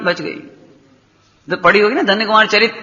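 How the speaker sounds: ordinary talk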